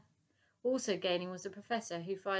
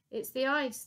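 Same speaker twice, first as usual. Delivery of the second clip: high, louder call back; 6 semitones higher, 6 dB louder than usual. Acted. Admiral's man calling back to Dotty, loud reply. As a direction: shout the excuse back. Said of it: "the man called back".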